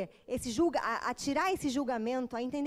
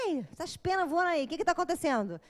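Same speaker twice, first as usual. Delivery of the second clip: retold yell; 4 semitones higher, 3 dB louder than usual. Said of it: "dei um grito".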